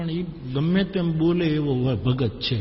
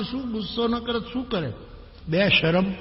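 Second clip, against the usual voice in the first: grumbling anger; 6 semitones higher than usual. Retold or imitated. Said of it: "બહુ ગુસ્સામાં આવ્યો".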